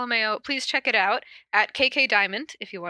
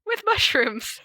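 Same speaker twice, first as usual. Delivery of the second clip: calm read-aloud fanfic narration; story narration. A narrator's reading. Reading the fic aloud.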